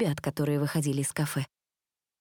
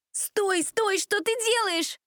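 screaming; much slower than usual. Acted. A girl screaming at the reckless driver, panicked. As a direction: scream for him to stop. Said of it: "кричала Джессика".

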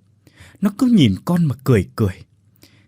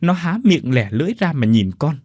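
frightened retelling; 4 semitones higher than usual. Acted. Son retells terrifying apparition.

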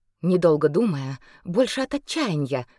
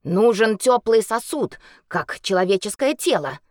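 healer voice; 3 semitones higher, 5 dB louder than usual. Acted.

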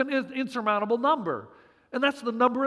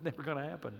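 chuckling, much softer and lower; laughing; 7 semitones lower, 13 dB quieter, faster than usual. Real, not acted. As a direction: laugh it off softly.

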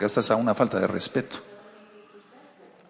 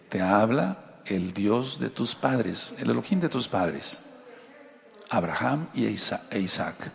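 slow and solemn, fading softer toward the end; God speaking; 2 semitones lower, 5 dB quieter than usual. Retold or imitated. Preacher voicing God speaking to Jacob, slow and solemn. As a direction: read it like a solemn divine voice, slowing right down. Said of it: "Yahweh, le dice".

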